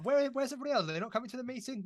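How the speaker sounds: high-pitched mock confusion; mock bewilderment. Joking that this is like a monthly meeting, mock bewilderment. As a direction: play puzzled, pitched well up.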